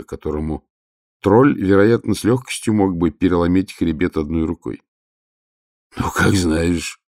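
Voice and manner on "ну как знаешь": resigned. Acted. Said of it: "отчаявшись".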